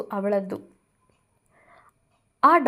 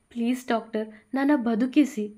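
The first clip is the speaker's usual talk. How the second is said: repeated pleading; 2 semitones higher than usual. Acted. Bhuvi begging the doctor a second time, pleading. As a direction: beg again, more desperate at the end. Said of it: "ಮತ್ತೆ ಕೈ ಮುಗಿದು ಬೇಡಿಕೊಂಡಳು".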